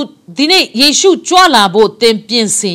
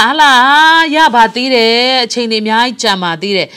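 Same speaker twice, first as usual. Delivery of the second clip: complacent heart; 2 semitones higher than usual. Acted. Preacher voicing the heart that puts off preparing, mock complacent. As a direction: act out a mild "plenty of time yet" shrug. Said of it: "ဆိုတဲ့နှလုံးသား".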